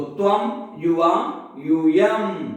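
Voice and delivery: त्वम, युवाम, यूयम spaced out word by word; repetition drill. Shown as a demonstration. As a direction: chant त्वम, युवाम, यूयम for a class to memorise. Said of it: "इसलिए मैं कई बार उच्चारण करता हूं".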